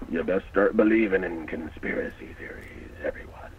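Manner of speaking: a hint of an old pirate; lightly voiced salty pirate. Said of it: "I love your pirate impression".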